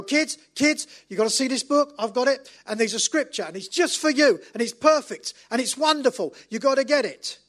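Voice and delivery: high, loud thrilled mother; rally the kids with breathless excitement; excited mum. Retold or imitated. Mother calling her kids to the table, high and excited. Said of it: "the lady with the family".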